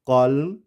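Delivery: कॉलम ending on M, no N sound; silent N. Shown as a demonstration. Teacher showing students the rule, silent N. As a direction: say कॉलम with the final n left silent. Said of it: "तो ये कॉलमन नहीं होगा".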